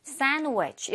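"sandwich" said as "sanwich"; "sandwich" with the d melted into the n; sandwich with dropped d. Shown as a demonstration. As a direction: drop the d after n in "sandwich". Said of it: "이런 식으로 발음이 되는 경우".

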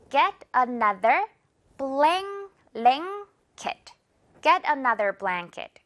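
blanket said slowly as blaŋket; slow ng demo. Shown as a demonstration. Teacher models the sentence for students, slow ng demo. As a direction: stretch Get another blanket, ng before the k. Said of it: "블랭 이렇게 발음 난다는 거".

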